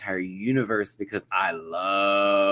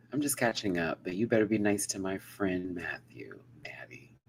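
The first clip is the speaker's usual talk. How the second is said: deep reading; 5 dB quieter than usual. Shown as a demonstration. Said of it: "the way I read it".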